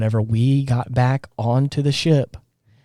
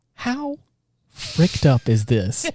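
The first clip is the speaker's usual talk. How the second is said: appalled disbelief; much slower than usual. Retold or imitated. Reacting to the scene, slow appalled disbelief. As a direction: drag it out in disbelief. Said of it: "I was like".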